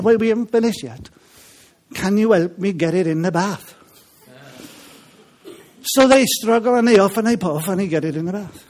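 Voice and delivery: put-on Welsh accent. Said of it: "It's hard work, this Welsh accent".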